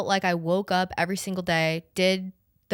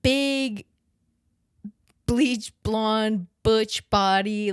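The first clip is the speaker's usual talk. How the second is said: mock congresswoman quote; 2 semitones higher, 4 dB louder, much slower than usual. Podcaster quoting a congresswoman's jab, slow mock delivery. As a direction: savour each word like a zinger.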